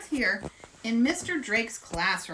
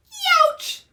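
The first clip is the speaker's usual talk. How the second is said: youch; 9 dB louder than usual. Acted. Reacting to the bite.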